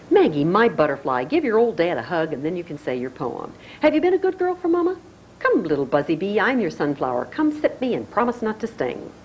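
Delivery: a hint of a fond, teasing father; lightly voiced doting father; Charles voice. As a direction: coax it playfully like a doting dad.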